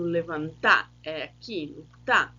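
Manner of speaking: "levantar" with the final "tá" punched; stress on tá. Shown as a demonstration. Teacher pointing out the stressed syllable "tá" to the class. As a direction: hit the last syllable "tá" in "levantar". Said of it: "a sílaba tônica ... é no".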